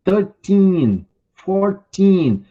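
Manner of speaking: put-on "Thirteen, fourteen" with the final "teen" drawn out long; stretched teen ending. Shown as a demonstration. Teacher to class: stretch the teen in "Thirteen, fourteen". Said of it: "tem que caprichar no sufixo in".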